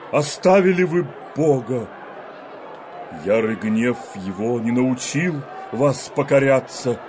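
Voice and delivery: rising, thundering rebuke; prophetic denunciation. Acted. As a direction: denounce the people like a prophet.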